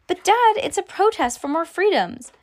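put-on high-pitched child protest; pleading daughter. A narrator's reading. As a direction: plead your case to dad. Girl pleads with her dad.

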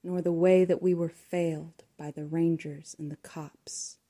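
measured, hushed recitation of an eerie ballad; poem reading. Acted. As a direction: tell it like a local ghost story. Reads her poem aloud.

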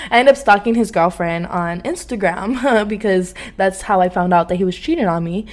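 ordinary talk, nothing marked

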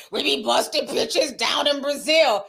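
shouted mock brag, lightly voiced; imitating a manly brag. Commentator quoting the singer's threesome brag, mock shout. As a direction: ham up the rapper's boast. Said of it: "That's how she was sounding, like a fucking man".

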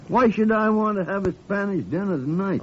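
put-on an old doctor scoffing at a dinner invitation; incredulous scoff. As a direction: scoff at the odd idea.

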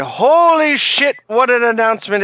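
excited. Real, not acted. Excited exclamation.

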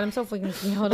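put-on soft babyish "freaking scared", R's softened; baby-talk fright. Continues the baby-talk bit.

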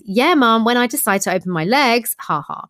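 light, jokey comeback; joking reply. Retold or imitated. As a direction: toss it off as a joke. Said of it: "I jokingly reply with".

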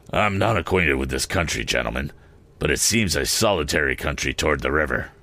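low, sly, probing stranger; a low, cunning stranger. Acted. Stranger voiced by the narrator.

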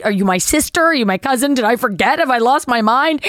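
retold rush of anxious questions; agitated. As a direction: imitate her growing bewilderment, question upon question. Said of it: "agitated by not knowing who I am".

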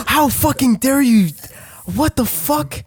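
high gasping outrage; mock outrage. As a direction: gasp then sound scandalized.

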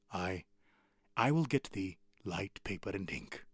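quiet jester. Retold or imitated. Jester speaking to prisoner.

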